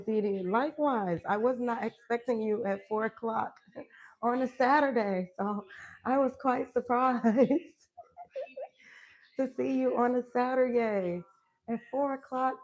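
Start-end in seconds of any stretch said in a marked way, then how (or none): 1.3-12.6 laughing surprise. Real, not acted. Surprised by early visitor.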